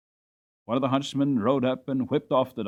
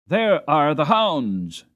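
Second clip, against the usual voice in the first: excited call; 3 semitones higher, 6 dB louder, much slower than usual. Acted. Colt calls out to the others.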